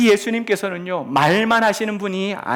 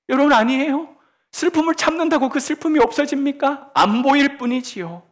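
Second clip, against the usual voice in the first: impassioned appeal; 7 semitones higher, 4 dB louder than usual. Real, not acted. Preacher pressing the point.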